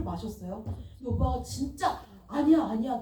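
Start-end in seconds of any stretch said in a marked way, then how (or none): 2.3-3.0 imitating a stubborn denial, a bit louder; mock protesting, quick to insist; insistent denial. Actress imitating her co-star denying he drank, insistently. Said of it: "너무 우기니까".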